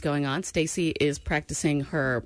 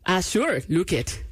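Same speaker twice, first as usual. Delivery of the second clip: Irish accent. Shown as a demonstration. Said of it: "Nope, that was awful".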